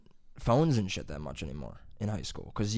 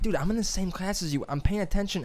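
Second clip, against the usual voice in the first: exasperated; 9 semitones higher than usual. Retold or imitated. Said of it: "I'm like".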